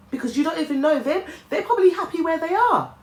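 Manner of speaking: high, light laugh through the words; breaking into a real laugh at the thought. Real, not acted. Hopeful aside about departed loved ones.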